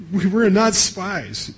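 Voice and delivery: a mild mock of frightened brothers; anxious protest.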